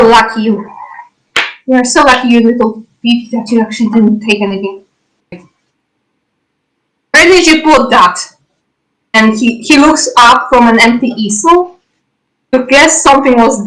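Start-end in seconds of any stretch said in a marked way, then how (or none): 5.3-8.2 slow, drawn-out accusing question, pitched up; a suspicious shopkeeper slowly demanding an answer; slow accusation. Acted. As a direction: lean on each word like an accusation. NPC accuses player of theft.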